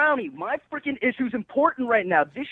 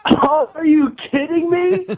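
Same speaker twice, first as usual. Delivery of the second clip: stunned disbelief; 7 semitones higher, 4 dB louder, slower than usual. Real, not acted. Learns it was a prank.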